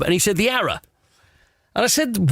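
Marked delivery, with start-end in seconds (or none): 0.4-0.8 "Arrow" as ARR-uh; dropped-h pub name. Retold or imitated. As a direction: end "Arrow" on a weak uh, no h. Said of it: "that's how it was pronounced".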